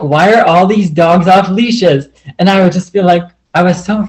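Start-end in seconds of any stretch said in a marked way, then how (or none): 0.0-2.1 retold anger. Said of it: "And I was so angry".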